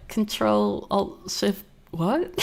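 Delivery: slow, puzzled imitation of a film line; baffled mimicry. Viewer mimicking the confused man in the film, baffled mimicry. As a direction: recite it haltingly, rising sharply on "what". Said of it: "He's just like".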